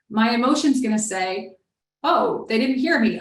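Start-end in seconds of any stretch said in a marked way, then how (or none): 2.0-3.2 mildly raised, pushing harder; a bit louder. Retold or imitated. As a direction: turn the volume up a notch, half-acted. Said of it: "I need to try even louder".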